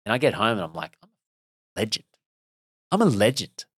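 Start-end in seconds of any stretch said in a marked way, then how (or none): 1.0-2.0 slow, held-back proud realisation; understated self-praise. Retold or imitated. Reliving proud return home after run. 2.9-3.6 higher, emphatic proud declaration; triumphant boast. Retold or imitated. Repeats boast with more force.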